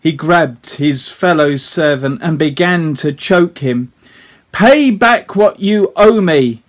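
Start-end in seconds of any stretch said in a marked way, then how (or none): 4.5-6.6 loud, higher, forceful demand; angry demand. Acted. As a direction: bark it at the debtor who owes you. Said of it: "he demanded".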